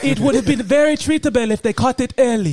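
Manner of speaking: put-on comic African accent. Patient explaining his disease, African accent. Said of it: "got to do that accent".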